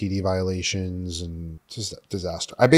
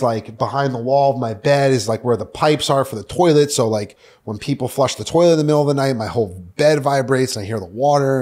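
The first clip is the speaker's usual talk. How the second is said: mildly agitated pleading, louder as it builds; retold urgent complaint; 3 semitones higher, 3 dB louder than usual. Caller begging Mia to get him out of rehab, retold urgent complaint. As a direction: act out a worked-up plea to come home. Retelling desperate call to Mia.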